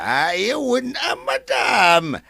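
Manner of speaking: high, loud burst of protest; startled shout. Acted. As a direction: cry out in alarm at madam. Caretaker protests to the owner.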